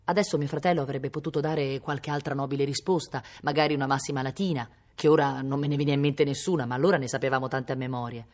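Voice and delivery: ordinary delivery, nothing marked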